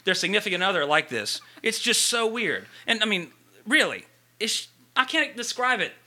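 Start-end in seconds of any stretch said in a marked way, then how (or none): 1.6-5.9 cringing, pitched up; secondhand embarrassment. Real, not acted. Cringing at awkward love scene.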